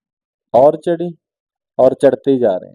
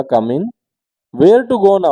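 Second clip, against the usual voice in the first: incredulous; 5 semitones higher, 4 dB louder, much slower than usual. Retold or imitated. Tiny room, mock disbelief.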